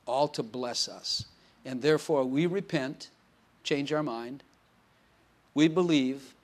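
measured phrases with long pauses; closing prayer. Real, not acted. Pastor praying to God for the congregation, deliberate prayer delivery.

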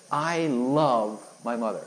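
finally forced out. Retold or imitated. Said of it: "So I finally said it".

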